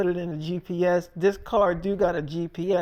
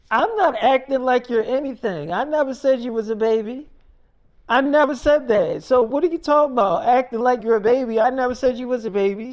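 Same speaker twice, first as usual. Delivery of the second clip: mock argument, higher and fast; retold mild outburst, pitched up and insistent; indignant retort; 4 semitones higher, 4 dB louder, faster than usual. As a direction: imitate a mother firing back defensively. Mother argues back in acted quarrel.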